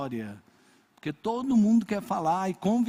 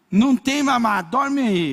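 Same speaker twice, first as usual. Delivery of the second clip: granddaughter as mom; 4 semitones higher, 7 dB louder than usual. Retold or imitated. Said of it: "Ela falava assim".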